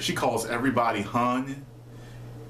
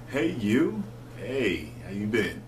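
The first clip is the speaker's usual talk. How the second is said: flirty; slower than usual. Shown as a demonstration. Demonstrating "hey you" as a term of endearment, flirty. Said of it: "almost like flirting".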